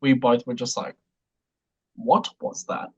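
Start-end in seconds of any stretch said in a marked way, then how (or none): 1.9-2.9 whispered, stunned disbelief; hushed whisper. Retold or imitated. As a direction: breathe it out like you're mid-screening. Stunned couple in the cinema.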